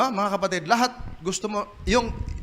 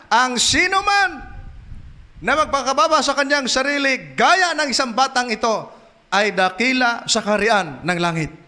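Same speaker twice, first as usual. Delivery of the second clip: solemn scripture reading; 6 semitones higher than usual. Acted. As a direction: announce the verse. Quotes Bible with raised voice. (mataas at mabagal na pagbasa ng talata)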